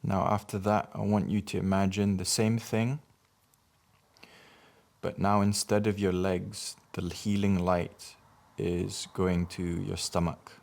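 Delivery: measured meditation guidance with long pauses for breathing; guided meditation. Acted. Guiding listeners to breathe in healing light, measured meditation voice. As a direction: lead each breath in short phrases, leaving space.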